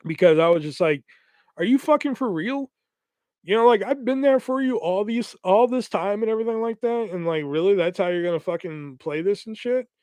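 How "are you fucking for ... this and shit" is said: higher, mock-exasperated outburst; snapping. Retelling snapping at the friend who dropped him. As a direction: let the grievance burst out, pitched up. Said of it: "I snapped right there".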